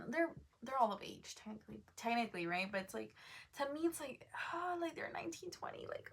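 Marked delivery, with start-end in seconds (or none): 4.5-6.1 hushed unvoiced aside; mock scandalized whisper. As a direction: whisper it like a secret.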